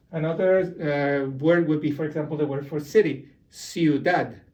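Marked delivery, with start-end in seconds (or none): 3.5-4.4 ciudad stressed on the final "dad"; stress on last syllable. Shown as a demonstration. Teacher gives the word for city, ciudad stressed on "dad". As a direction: lean on the "dad" that ends ciudad. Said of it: "you stress the N".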